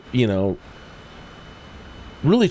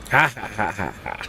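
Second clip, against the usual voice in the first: put-on gangster chuckle, trailing away softer; mock villain laugh; 3 semitones lower, 5 dB quieter than usual. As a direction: fade out a fake villainous ha-ha.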